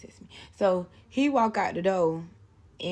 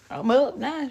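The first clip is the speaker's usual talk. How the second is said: startled shout; 7 semitones higher, 7 dB louder than usual. Retold or imitated. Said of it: "So I'm like".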